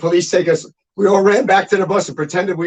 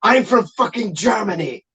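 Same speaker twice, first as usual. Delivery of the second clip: higher-pitched, emphatic mock insistence; indignant retold protest; 5 semitones higher than usual. Friend insisting to police he is German, indignant retold protest. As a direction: insist on each word, imitating an exasperated friend.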